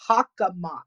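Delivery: slow, careful Hockomock; said slowly. Shown as a demonstration. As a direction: spell out Hockomock syllable by syllable, slowly. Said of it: "I'm gonna say it a little bit slower".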